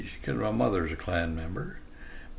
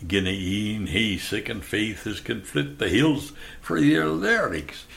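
scripture rolled out in a Scottish accent. Shown as a demonstration. The speaker recites a Bible chapter on love to listeners, Scottish accent. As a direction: recite in broad Scots dialect. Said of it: "I gave it in a Scottish accent".

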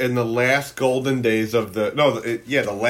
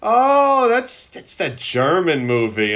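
imitating grandma; 3 semitones higher, much slower than usual. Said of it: "she's like".

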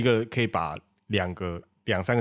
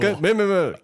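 high, loud protesting no; flustered denial; 12 semitones higher, 7 dB louder, faster than usual. Real, not acted. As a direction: quickly deny it all. Denying sarcasm accusation.

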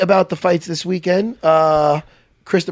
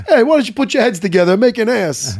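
lightly done Rodney, pitched higher and louder; Rodney Dangerfield impression; 5 semitones higher, 3 dB louder than usual. Host quoting his favorite movie scene as Rodney Dangerfield. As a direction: toss the line off like Rodney. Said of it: "That's my Rodney".

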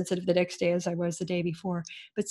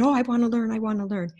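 eager; 4 semitones higher, 4 dB louder, faster than usual. Retold or imitated. Eager retold reply.

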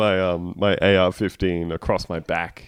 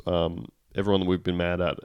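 ordinary talk

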